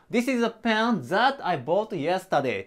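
"This is a pen that I bought yesterday" read slowly, word by word; slow careful classroom read-aloud; slow model sentence. Shown as a demonstration. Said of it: "関係代名詞のthatを入れて".

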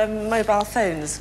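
laughing. Real, not acted. Caller corpses on phone.

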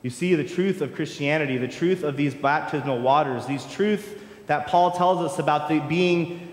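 impassioned sermon cadence with rising builds; preaching. Acted. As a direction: preach it to the congregation.

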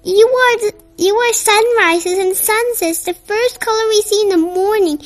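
Gray thrilled, pointing out the sky to Pink; awestruck wonder. Acted. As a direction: marvel at the sunset with her. Gray shows Pink the sunset.

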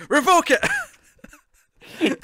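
very high, very slow, loud stretched-out scream; drawn-out mock scream. Fan's hammed-up climax at the screen, long high scream. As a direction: stretch it into an over-the-top wail.

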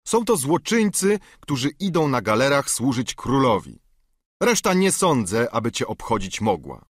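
lightly voiced rider, brushing him off; a hint of a gruff guard dismissing a busybody; curt guard. Guard rebuffs the knight.

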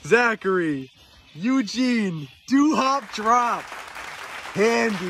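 ring announcer. Pretend. Wrestling ring announcer intro.

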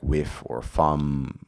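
"whiff or fum" with F replacing TH, slow; with as "whiff", thumb as "fum", F sounds; TH fronting. Shown as a demonstration. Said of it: "what we call T H fronting".

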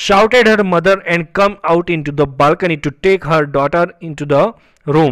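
very slow, word-by-word textbook reading; read-aloud lesson text. Acted. Teacher reading a story line to students, slow deliberate read-aloud. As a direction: read it out slowly, stretching each word.

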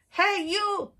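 high, loud, cheeky challenge; grouchy ladybug voice. Acted. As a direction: pick a fight in a squeaky bug voice. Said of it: "said the grouchy ladybug".

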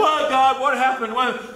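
whiny, complaining mock protest to God; a touch of petulant whining; wrong attitude. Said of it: "Wrong attitude".

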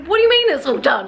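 high-pitched retold disbelief; high, astonished question; incredulous. Acts out her own astonished response.

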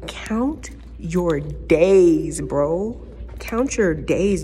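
slow, drawn-out mock threat; a hint of a menacing warning. Warning the driver Leonardo, slow mock threat.

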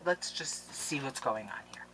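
unvoiced hushed peek; whisper. Real, not acted. Vlogger peeking into the box, whispered. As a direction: whisper as you peek inside.

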